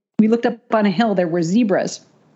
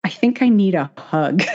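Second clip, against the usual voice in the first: laughing plea. Retold or imitated. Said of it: "I looked at her and I said".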